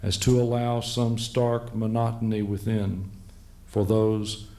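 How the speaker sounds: slow, deliberate verse recital; measured poetry reading with spaced-out phrases; poem reading. Acted. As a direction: read it as a poem, pausing between images. Reads his poem aloud.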